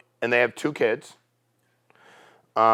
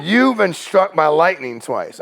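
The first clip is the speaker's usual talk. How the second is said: slow, higher-pitched repeat in disbelief; incredulous echo; 5 semitones higher, 3 dB louder, slower than usual. Retold or imitated. Agent repeating the client's lightning claim, incredulous. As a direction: echo it back, astonished and drawn out.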